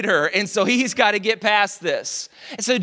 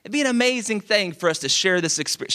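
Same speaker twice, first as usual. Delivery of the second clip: put-on overly polite girl; faster than usual. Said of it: "She didn't talk like this".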